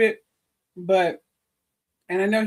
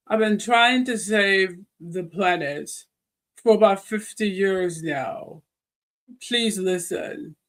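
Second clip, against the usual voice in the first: put-on slow, mild posh British accent; lightly imitating a British king, slowly; a hint of a British accent on a slow plea; slower than usual. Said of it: "He probably said in a very British accent".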